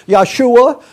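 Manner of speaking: "Yahshua" said slowly as YAH-shoo-ah, rising at the end; teacher modelling "Yahshua" slowly for the class; Hebrew pronunciation. Shown as a demonstration. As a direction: give "Yahshua" its Hebrew sound, carefully, as a model to copy. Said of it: "If you want to say it in Hebrew".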